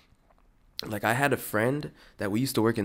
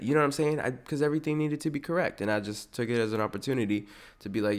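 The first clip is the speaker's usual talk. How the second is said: ordinary talk, nothing marked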